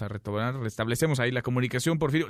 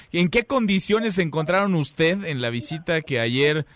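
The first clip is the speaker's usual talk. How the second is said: speaking louder. Real, not acted. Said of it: "le voy a hablar un poquito más fuerte".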